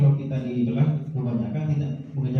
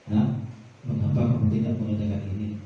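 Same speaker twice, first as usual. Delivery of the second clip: calm, lower-pitched teacher's question; 3 semitones lower, faster than usual. Shown as a demonstration. Teacher asking a pupil about undone homework, calmly. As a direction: ask without scolding, low and even. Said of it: "bukan marah-marah".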